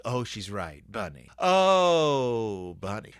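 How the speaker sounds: a hint of a bunny choking up; touched bunny. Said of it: "he has his hand up to his mouth like".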